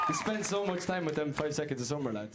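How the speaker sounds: playful put-on Australian twang; Australian accent. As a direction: have a half-hearted go at an Aussie accent. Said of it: "Who can do the best Australian accent?".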